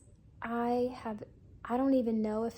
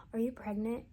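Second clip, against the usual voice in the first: imitating mom in a whisper; whispered question. Mom asking her upset daughter on the phone, whispered. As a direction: breathe the question with no voice. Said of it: "and she said".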